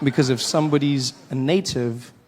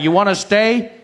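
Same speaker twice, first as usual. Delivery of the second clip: insistent retort; 5 semitones higher, 6 dB louder than usual. Retold or imitated. Insistent voice in story.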